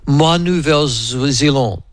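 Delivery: put-on slow, halting schoolboy French accent; French in a New Zealand accent. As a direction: attempt French like a Kiwi schoolboy. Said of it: "with my schoolboy French".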